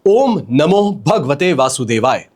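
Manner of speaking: slowly recited mantra; measured, unhurried sacred recitation. Shown as a demonstration. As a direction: give each word of the mantra time. Mantra for viewers to comment.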